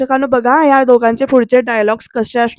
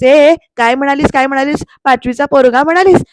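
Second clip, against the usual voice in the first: louder, stung demand; offended outburst; 4 dB louder than usual. Retold or imitated. Pruthvi outraged at being called a fifth-grader, loud. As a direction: repeat her insult in disbelief.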